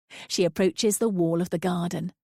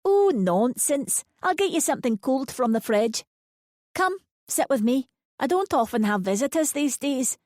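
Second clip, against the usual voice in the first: put-on higher, playful insistent old lady; 6 semitones higher than usual. A narrator's reading. Linda insisting Lucy sit, playful. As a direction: brush off her refusal fondly. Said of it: "swats both her hands towards Lucy playfully".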